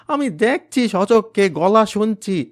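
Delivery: high, loud, slow sobbing protest; broken desperate plea; crying insistence. Acted. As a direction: insist through tears.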